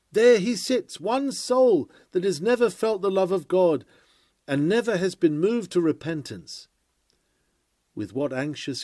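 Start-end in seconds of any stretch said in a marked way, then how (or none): 0.1-6.7 louder, higher accusing call; single out the sinner before the crowd; pointing him out. Pretend. Preacher pointing out an unconverted man, loud accusing call. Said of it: "I could point him out and say".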